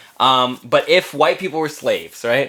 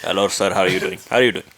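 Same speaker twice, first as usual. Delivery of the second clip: low, lightly put-on South Asian accent greeting; South Asian accent, low and polite; 9 semitones lower, 3 dB quieter, faster than usual. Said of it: "really good brown accent".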